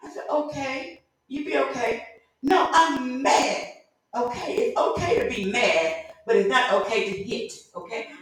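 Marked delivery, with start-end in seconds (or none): 0.3-2.1 higher, softer placating tone; light retold reassurance; soothing. Soothing a pouting boy. 2.4-3.7 put-on higher, drawn-out childish insistence; mock stubborn pout; pouty child. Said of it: "that push his lip out".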